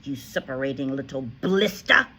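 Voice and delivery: shouting. A narrator's reading. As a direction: rage at him about the cake. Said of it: "the Trunchbull shouted".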